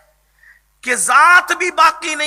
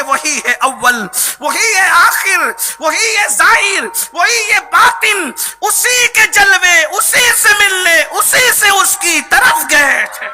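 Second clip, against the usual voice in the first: short emphatic phrases, rising in pitch; rhythmic verse declamation; 5 semitones higher, 5 dB louder than usual. Acted. Preacher reciting his imam's couplet on first and last, building fervour.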